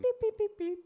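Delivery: high beeping machine voice; robot voice. Pretend. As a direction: play a chirpy robot.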